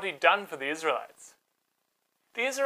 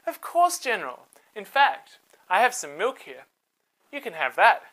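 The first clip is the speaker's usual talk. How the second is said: Jael hospitable; 2 semitones higher, 4 dB louder than usual. Acted. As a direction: sweetly offer him milk. Jael offering milk.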